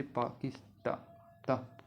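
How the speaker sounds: पाकिस्ता broken slowly into पा-किस-ता, then ता alone; slow syllables, isolating the final ता; syllable-by-syllable pronunciation. Shown as a demonstration. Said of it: "pronounce करेंगे टे".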